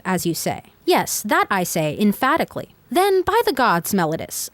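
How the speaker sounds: put-on measured, formal read-aloud of an old courtroom speech. Podcast host reading Plato's Apology to listeners, formal read-aloud. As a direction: read it like a steady audiobook narrator.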